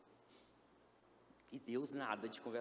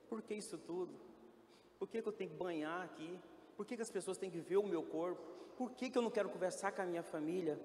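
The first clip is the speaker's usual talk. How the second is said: anguished questions; 6 semitones higher than usual. Retold or imitated. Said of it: "eu falava assim".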